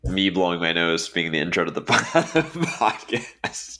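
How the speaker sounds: slow, amused, laughing through it. Real, not acted. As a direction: laugh while picturing it. Laughs at his nose-blowing.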